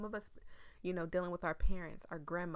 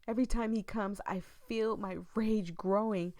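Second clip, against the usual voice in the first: dramatic read-aloud of a creepy tale; eerie storytelling voice; story narration; 3 dB louder than usual. Acted. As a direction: read it like a ghost story to the viewers.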